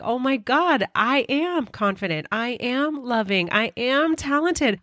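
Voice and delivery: beaming self-declaration; excited affirmation. Real, not acted. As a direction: proclaim it with growing joy. Joyful self-affirmation, rising.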